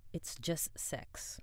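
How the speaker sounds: soft slow whisper in English; whispered aside. A narrator's reading. Narrator whispers a frank aside to the listener. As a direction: breathe it as a secret aside.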